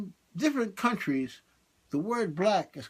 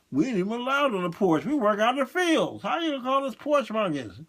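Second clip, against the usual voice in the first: higher, mock-indignant complaint; indignant protest; 5 semitones higher, 3 dB louder than usual. Slave objecting to being called names, acted indignation. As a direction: protest it as an offended character.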